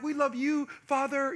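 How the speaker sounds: lightly hammed-up sweetness; imitated loving children. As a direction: play the suddenly adoring child. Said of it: "they start speaking in different languages".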